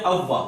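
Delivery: "اووا" with unrounded lips, waw leaning toward fa; common mispronunciation. Retold or imitated. Teacher imitating how most people read it, mispronounced waw. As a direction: say "اووا" wrongly, without rounding the waw. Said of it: "اکثر لوگ اس کو پڑھتے ہیں".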